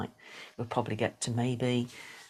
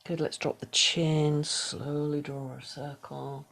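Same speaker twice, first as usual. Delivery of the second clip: soft, unhurried meditation guidance with whispered cues; guided meditation; 3 semitones higher, 7 dB quieter than usual. Acted. Yoga teacher guiding the class through a body scan, soft meditation voice. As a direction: ease the class into stillness, gently.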